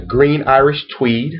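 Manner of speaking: unhurried list item with a lifted ending; slow repeat. Real, not acted. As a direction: draw the product name out slowly. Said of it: "let me repeat it slowly".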